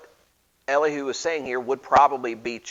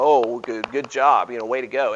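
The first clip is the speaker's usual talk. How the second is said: sarcastic; 4 dB louder than usual. Retold or imitated. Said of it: "this very snarky, sarcastic thing".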